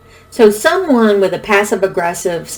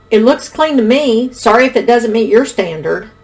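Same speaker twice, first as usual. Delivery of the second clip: higher, mildly defensive passive-aggressive retort; 4 semitones higher than usual. Acted. Someone excusing their cleaning to a partner, passive-aggressive. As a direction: act out a higher-pitched non-apology. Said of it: "this might look like some of these things".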